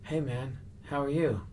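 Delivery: high-pitched character greeting; Andy Kaufman. Retold or imitated. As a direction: lift the voice into an odd in-character hello. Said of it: "staying in the Andy Kaufman character".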